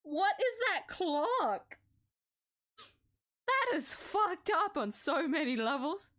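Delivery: slow, drawn-out stunned swearing; genuinely baffled outburst; shocked disbelief. Real, not acted. Player reacting to a strange clock, stunned.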